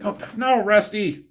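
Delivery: high-pitched cry of dismay at Rusty; real dismayed outburst. Real, not acted. Reviewer interrupts the recap to tell Rusty no, dismayed and high-pitched.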